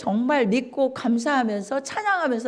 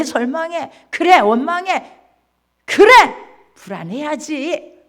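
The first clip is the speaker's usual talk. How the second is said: devil's taunting; 3 semitones higher, 4 dB louder than usual. Acted. Preacher acting the devil taunting a worried believer. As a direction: goad them like a sneering tempter. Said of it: "놀이터란".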